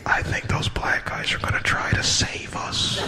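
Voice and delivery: whispered, hushed white passengers; scared whisper. Retold or imitated. White passengers at the front whispering in fear, hushed. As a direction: breathe it out in a frightened hush. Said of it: "they were like".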